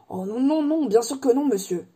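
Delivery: hasty, flustered denial; hurried. Acted. Hagrid hastily denies using the wand, flustered. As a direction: rush the nos out, caught out. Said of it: "répondit précipitamment Hagrid".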